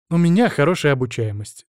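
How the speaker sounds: mildly boastful claim; proud. Acted. Narrator boasting of being a quick learner, mildly proud. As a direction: say it with a touch of pride. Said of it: "гордо заявил я".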